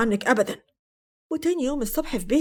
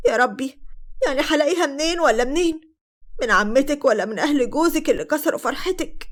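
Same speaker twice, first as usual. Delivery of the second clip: acted crying complaint, understated; tearful lament; 3 semitones higher than usual. Dalal complaining to the narrator about her troubles, tearful. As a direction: lament with a touch of tears. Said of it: "وكانت عمالة تعيط وقالت".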